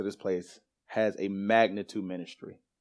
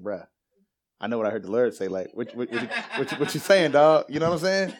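incredulous protest; 2 semitones higher, 4 dB louder than usual. Retold or imitated. Retelling his reply to spiritual dad.

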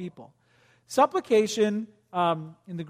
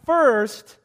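eager; 5 dB louder than usual. Pretend. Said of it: "I want you to say it".

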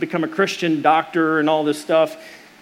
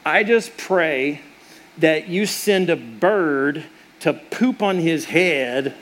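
slow, solemn imitation of mom praying; lightly voiced mother praying; mock prayer; much slower than usual. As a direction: draw out the prayer, deadpan and pious. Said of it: "she prays and she says".

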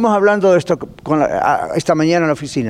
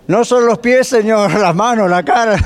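eager Peter; 5 semitones higher than usual. Retold or imitated. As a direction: blurt it out, overeager.

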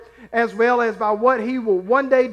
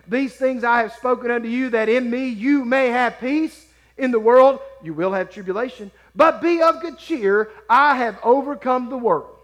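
measured, ringing proclamation of a verse; emphatic scripture reading; 2 semitones higher than usual. Acted. Preacher reading Christ's promise of peace to the congregation, emphatic proclamation.

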